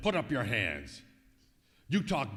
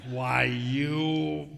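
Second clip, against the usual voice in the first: angry outburst; 7 dB louder than usual. Acted. Missed punch, furious.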